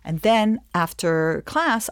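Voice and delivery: normal talking voice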